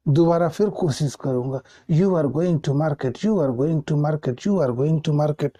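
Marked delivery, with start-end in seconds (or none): 1.9-5.5 slow, careful rote repetition; corrected sentence drilled at a slow pace; slow repeated drill. Shown as a demonstration. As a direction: repeat it slowly like memorising. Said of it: "मैं रटता हूँ".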